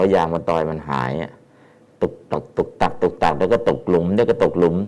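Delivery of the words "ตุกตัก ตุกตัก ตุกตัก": choppy tuk-tak syllables, like bumping over potholes; imitated bumpy stumbling. Shown as a demonstration. Teacher likens halting chanting to a potholed road, bumpy stumbling. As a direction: sound out a jolting, halting road. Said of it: "มันตะกุกตะกัก เหมือนทางที่".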